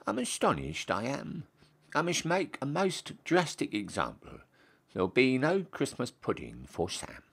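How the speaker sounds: a lofty, scandalised general handing down punishment; pompous Duke. Acted. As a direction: play the Duke shocked and stern. Duke voiced in recitation.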